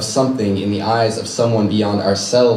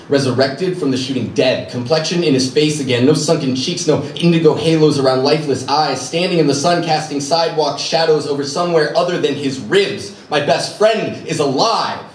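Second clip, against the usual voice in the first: rising elation; 5 semitones higher than usual. Acted. Jubilant climax, best friend is alive.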